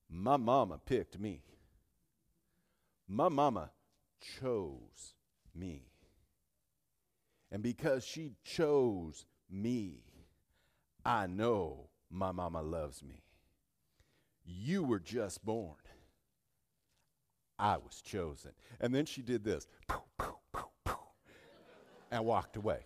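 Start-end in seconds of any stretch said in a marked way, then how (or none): 0.1-18.5 low, deliberate comeback with weighty pauses; pointed retort. Retold or imitated. Adopted girl answering the girl who teased her, pointed retort. 19.9-21.0 short voiceless puffs of air; imitated puffs. Adopted girl's parting shot before walking away, imitated puffs.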